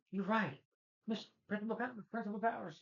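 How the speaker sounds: man nervously calls for the principal; flustered call. Retold or imitated. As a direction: squeak out the name, high.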